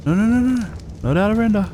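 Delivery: high, rapid-fire alarmed noes; gamer's high, worried protest; panicked pleading. Real, not acted. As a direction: plead urgently as it slips away. Boss being pushed out of render.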